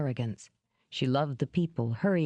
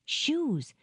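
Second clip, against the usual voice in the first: long sigh; 11 semitones higher than usual. A narrator's reading. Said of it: "she said with a long sigh".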